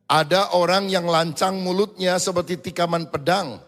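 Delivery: scripture reading. Acted. Reads scripture.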